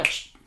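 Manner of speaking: short sharp shush; correcting shush. Shown as a demonstration. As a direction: shush the dog off the sandwich. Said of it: "Esa es una corrección".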